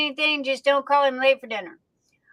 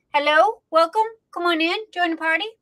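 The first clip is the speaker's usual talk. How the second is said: excited welcome; 5 semitones higher, 3 dB louder, faster than usual. Real, not acted. Host welcomes a new viewer.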